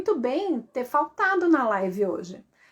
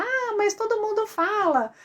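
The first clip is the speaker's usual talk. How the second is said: high, whiny imitation of a viewer; imitating a skeptical viewer, pitched up; mock whiny objection; 10 semitones higher than usual. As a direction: squeak it out like a doubtful fan. Mocking typical viewer objection.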